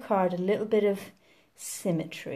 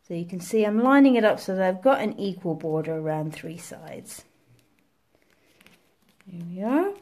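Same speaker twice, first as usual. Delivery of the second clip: sniffling. Real, not acted. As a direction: sniffly voice with a runny nose. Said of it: "excuse the sniffles".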